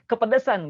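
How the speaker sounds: Kepedesan with a breathy spicy-mouth h; hissing ha sound. Shown as a demonstration. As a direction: puff out Kepedesan like a burning tongue. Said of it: "gimana bunyinya?".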